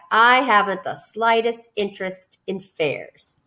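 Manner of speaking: slow, sulky rat voice; a touch of grumpy rat. Acted. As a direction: dismiss fairs like a bored rat. Rat refusing, same voice.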